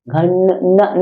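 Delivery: घन- broken off on a held nasal n; घन-, न- isolating the nasal sound; drawn-out nasal n. Shown as a demonstration. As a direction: hold the न of घन- in the nose, then repeat it. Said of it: "नाक बोलना ना".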